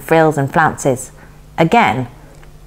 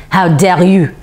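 indignant scolding; 2 semitones higher than usual. A narrator's reading. Indignant woman ejecting the girl.

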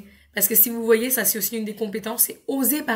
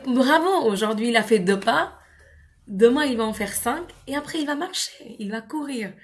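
proud encouragement. Shown as a demonstration. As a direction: cheer on a toddler's first steps. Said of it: "On va dire".

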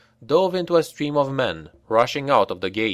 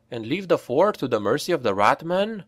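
aghast; 5 semitones higher than usual. Acted. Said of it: "asked Karel, aghast".

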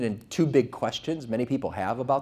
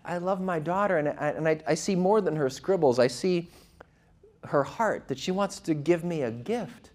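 normal talking voice

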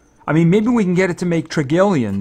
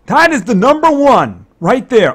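louder, higher whoop of triumph; excited cheer; 7 semitones higher, 6 dB louder than usual. Real, not acted. Gamer cheering his new top business, loud and excited. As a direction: call it out like he just won. Top earner in idle game.

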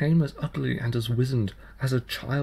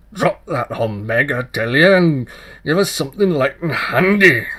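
middling sharp; 2 semitones higher, 9 dB louder than usual. Acted. Changeling child sharply demands a livelier tune from the tailor. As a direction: bark it at him, cheeky. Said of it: "middling sharp".

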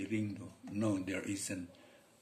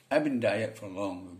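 native English speaker; 4 dB louder, slower than usual. Shown as a demonstration. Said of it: "Gitu bacanya".

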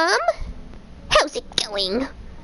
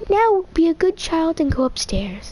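Goat Mom voice; 4 semitones higher than usual. Acted. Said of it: "I can't voice characters in Undertale".

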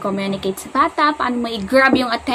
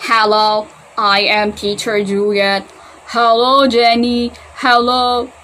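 slow, louder robot speech; toy robot voice; 4 dB louder, slower than usual. Shown as a demonstration. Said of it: "Paano ba na si robot?".

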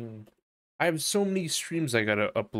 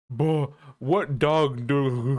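mock dumb commenter; much slower than usual. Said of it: "What does Ben say in response?".

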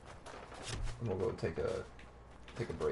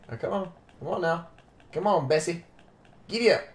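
urging a horse; 5 semitones higher, 4 dB louder, faster than usual. Pretend.

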